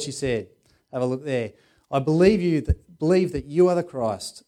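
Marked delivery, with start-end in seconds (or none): 1.9-4.4 Martha declaring her faith out loud to Jesus, loud and sure; loud declaration. Acted. Martha answers Jesus, loud and certain. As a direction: proclaim it with conviction.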